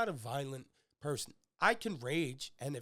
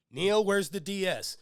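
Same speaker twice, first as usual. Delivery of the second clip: mock angry demand; 6 semitones higher, 8 dB louder, slower than usual. Dad confronting uncle, retold.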